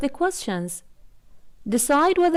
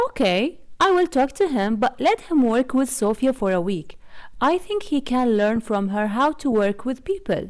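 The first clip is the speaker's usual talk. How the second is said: ordinary delivery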